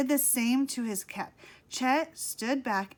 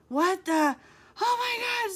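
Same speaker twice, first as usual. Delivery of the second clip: shocked whisper; 10 semitones higher, 5 dB louder than usual. A narrator's reading. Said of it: "Sid whispered".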